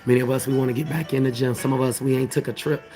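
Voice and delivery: low wrap-up delivery; sermon closeout voice. Shown as a demonstration. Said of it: "Let me get my closeout voice going".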